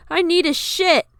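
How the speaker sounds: high, loud blurted excuse; loud declaration. A narrator's reading. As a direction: shout it as an escape. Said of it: "he suddenly declared".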